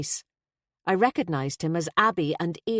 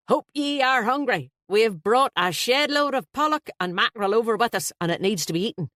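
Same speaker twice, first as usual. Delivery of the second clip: loud, high, hearty Irish voice; a flustered, jovial Dubliner blurting out; Irish best man; 5 semitones higher, 3 dB louder than usual. Acted.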